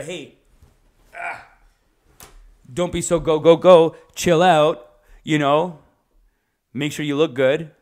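lightly put-on Middle Eastern accent. Older countries telling people to chill out, Middle Eastern accent. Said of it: "Most, like, older countries, they kinda have".

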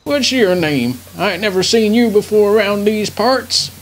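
put-on old veteran grandpa rambling; doddering old grandpa voice. Grandpa character.

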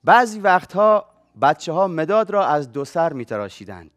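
measured storyteller read-aloud voice; literary reading, unhurried; story reading. Acted. Reads his chosen story aloud.

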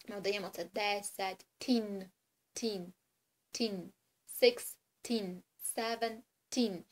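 "тін" repeated and seventeen drawn out; stress on teen. Shown as a demonstration. Teacher shows teen endings for the child, stressed. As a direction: hammer the ending тін each time. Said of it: "наголосити на цьому".

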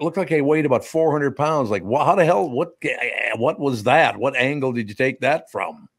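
mock dismay. Host reliving seeing his dinner photo, mock dismay. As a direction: play up disbelief at an awful photo. Retelling shock at own photo.

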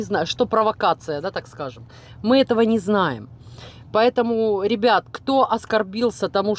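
chewing while talking; mouth full. Real, not acted. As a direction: between bites of food. Seen 1: Fed by fork at 0.6, then talks with food in mouth.

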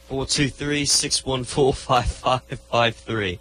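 lightly done British accent. Shown as a demonstration. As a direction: read the digits in a British accent. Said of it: "telephone number there in your British accent".

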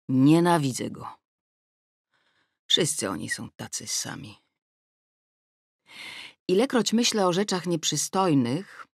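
usual speaking voice

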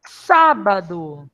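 sábado drawn out, syllables spaced; slow dictation. Shown as a demonstration. Teacher dictates the next word to the class, drawn out. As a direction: stretch sábado so kids find the stress.

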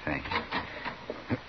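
soft, near-whispered thank you; hushed thanks. Acted. Ashamed husband thanking the marshal, hushed. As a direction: barely voice it, humbled.

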